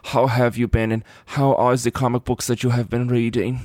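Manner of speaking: put-on measured German-accented host voice; Werner Herzog. Host imagines a weird show intro, mock German accent. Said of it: "channeling Werner Herzog".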